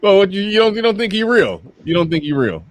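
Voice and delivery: you can't be serious, up high; incredulous. Real, not acted. Host reacting in disbelief to a viewer, pitched high.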